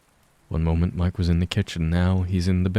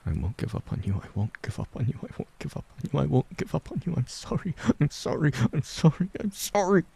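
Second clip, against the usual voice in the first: rising anguish; 8 semitones higher, 6 dB quieter, faster than usual. A narrator's reading. Mike's broken promise, rising into tears.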